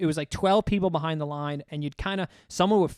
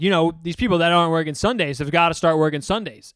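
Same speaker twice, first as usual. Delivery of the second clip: louder imitation of pointed grumbling; talking out loud; 5 dB louder than usual. Coworker wanting everyone else to hear, talking loudly. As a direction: project it for the whole room to overhear. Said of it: "he's talking out loud".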